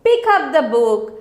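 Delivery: teacher's firm command. Shown as a demonstration. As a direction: Pick up the book as a firm order. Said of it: "this is commanding".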